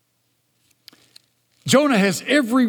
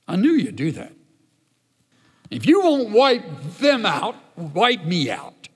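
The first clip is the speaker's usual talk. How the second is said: pouting Jonah. Acted. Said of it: "verbiage of pouting Jonah".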